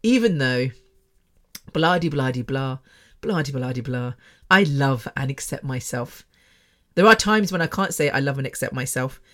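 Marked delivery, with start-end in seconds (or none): 0.0-6.2 mock EFT affirmation. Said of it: "they will say".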